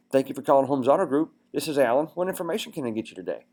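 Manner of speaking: excited, upbeat greeting. Shown as a demonstration. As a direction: greet the caller like you're excited to help. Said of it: "Like you're excited about getting them".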